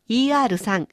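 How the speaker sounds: イーアール三 without Mandarin tones; Japanese-style mispronunciation. Shown as a demonstration. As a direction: demonstrate イーアール三 as flat Japanese syllables. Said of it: "イーアール三にならないように". (日本語読みのイーアール三)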